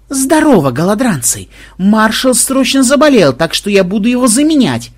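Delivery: loud, high, merry greeting; brash and jolly, greeting the crowd; swaggering cheerful boast; cheerful announcement. A narrator's reading. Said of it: "жизнерадостно заявил Ксенобайт".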